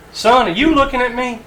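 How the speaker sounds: drill sergeant bark. Retold or imitated. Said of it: "drill sergeant would come back and say".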